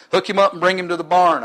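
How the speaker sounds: lightly voiced commanding father; father's command. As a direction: give a brisk order as the father, lightly acted. Father's order, acted in story.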